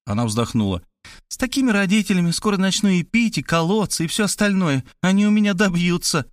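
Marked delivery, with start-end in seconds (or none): 1.3-6.3 put-on higher teen girl voice, defiant; sulky Varvara. A narrator's reading. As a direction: complain defiantly like a teenager. Varvara complains about parents.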